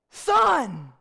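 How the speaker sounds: mock dad yell, drawn out; yelled-out name. Dad catches his child in the mud, acted yell. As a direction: call the child out like an angry father. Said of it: "being yelled out".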